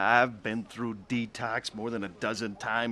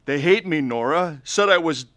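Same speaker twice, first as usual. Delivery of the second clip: put-on drunk pleading; 5 semitones higher, 6 dB louder than usual. Drunk man begging his sister.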